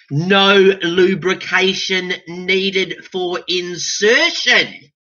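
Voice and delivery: slow, deadpan innuendo; mock ad voice. Showing stubby holder fits, slow deadpan innuendo. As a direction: read it like a cheeky ad.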